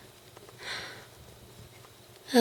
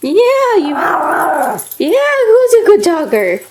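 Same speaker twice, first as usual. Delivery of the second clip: talking to a dog. Real, not acted. Owner praising dog, high voice.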